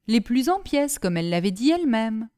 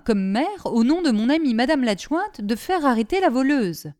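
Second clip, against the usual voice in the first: higher, louder reproach; nagging her husband the mayor; scolding wife; 3 semitones higher, 3 dB louder than usual. Acted. (madame Delmy reproche à son mari)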